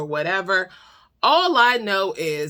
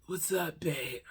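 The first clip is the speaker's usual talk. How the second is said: groggy waking mumble; 2 semitones lower, 12 dB quieter than usual. Retold or imitated. Boyfriend just woken from snoring, groggy waking mumble. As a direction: answer as if barely awake.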